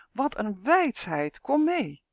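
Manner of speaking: slow, high little dragonfly voice; buzzing dragonfly. A narrator's reading. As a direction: buzz it out like an excited dragonfly. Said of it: "zoemde hij".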